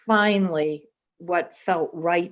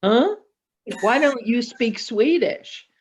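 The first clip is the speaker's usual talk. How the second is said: higher, louder questioning "Huh?"; puzzled onlookers; 5 semitones higher, 3 dB louder than usual. Retold or imitated. People ask her why she won't speak Swedish, mock puzzlement. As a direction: mimic baffled people asking why. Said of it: "people look at us and they go".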